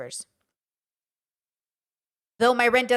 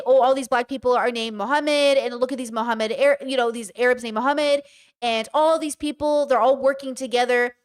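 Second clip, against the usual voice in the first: 1 mock bigot. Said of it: "that's why they say".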